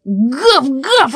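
two emphatic dog barks; dog barking. A narrator's reading. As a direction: bark back in reply. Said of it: "отвечает собака".

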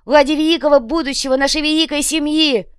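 loud, high-pitched grandiose speech; holding forth. A narrator's reading. Копыта tells kinsfolk of his sacrifices, holding forth grandly. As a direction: orate with swelling self-importance. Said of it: "продолжал разглагольствовать Копыта".

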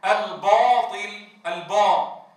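slow الباطل with a thick, backed alif; overly emphatic alif in الباطل; heavy alif. Shown as a demonstration. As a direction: darken the alif of الباء. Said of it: "فالبعض يقول النهار".

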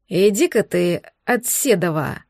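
low, wary monster voice. Acted. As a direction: back off warily, low and rough. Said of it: "настороженно произнёс монстр".

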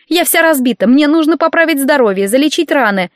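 high, whining, self-pitying; milk the suffering theatrically; hysterical patient. Acted. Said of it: "Градус истерики на койке возрос".

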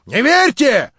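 повтор выше и громче; второй раз настойчивее, с нажимом на «верьте»; ещё взволнованнее. Acted. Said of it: "восклицал инженер в невыразимом волнении". («верьте» выше и громче, в сильном волнении)

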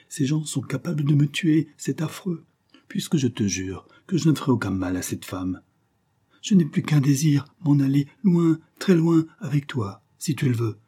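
supplication aiguë et haletante, parfois plus forte; supplie-le à travers la porte, la voix montant d'angoisse; implorer. Acted. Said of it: "continuait à implorer". (Diana supplie son amant derrière la porte, voix implorante)

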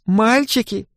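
high, flirty woman's voice; playful female voice. A narrator's reading. Tipsy woman greeting thugs in alley, playful. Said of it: "игривый женский голос".

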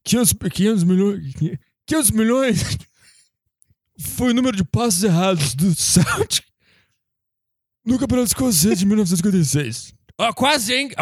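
put-on a doddering old man reading numbers. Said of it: "O cara imitou um velho tendo um A V C".

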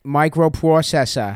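mock Boston accent. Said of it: "Here's how you get the accent".

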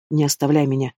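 a pleading cry with the voice on the edge; desperate plea. A narrator's reading. Husband begging his dying wife not to leave. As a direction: beg her not to leave you.

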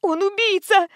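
выше, громко выкрикнуть; бросить обвинение криком в дверь. A narrator's reading. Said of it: "закричала Фрол". (мать жертвы кричит, громко и выше)

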